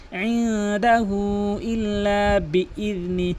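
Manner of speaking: slow chanted recitation; Quran recitation. Shown as a demonstration. Teacher recites the corrected phrase, slow chant. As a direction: chant it slowly and evenly.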